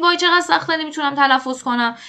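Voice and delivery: acted whine of a learner giving up; discouraged learner complaint. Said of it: "ناامید نشید بگید". (غر زدن نمایشی شاگرد ناامید)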